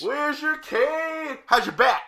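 slow, high mocking tease; mock teasing. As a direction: needle him about being old. Teasing friend as old.

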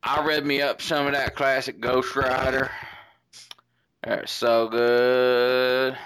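drawn-out put-on Australian accent; mock Australian accent. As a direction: play a cartoon Australian reader. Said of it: "I started doing it in Australia".

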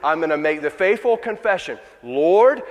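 rally yourself to cry out to him; loud high-pitched determination; desperate resolve. Acted. Voices the woman's desperate resolve.

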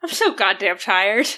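tired character voice. Acted. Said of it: "she's just gonna go".

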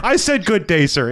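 the huffy aristocrat's exit line; storyteller echoing the gag, high and indignant; mock indignant gentleman. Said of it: "I was like".

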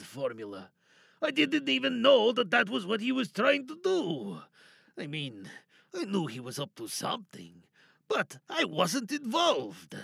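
a sly, wary prisoner bargaining to be freed; lightly voiced cornered lab worker, coaxing then threatening; captive scientist. Tied-up ex-colleague talks his captor toward unlocking him, wary and sly.

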